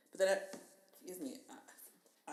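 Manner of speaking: hiccuping mid-sentence; hiccups. Real, not acted. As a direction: talk through the hiccups. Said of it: "I'm hiccuping because of La Croix".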